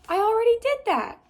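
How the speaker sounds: high, loud and irritated; annoyed yell. Acted. Girl answering boy, high irritated yell. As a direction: throw it back at him.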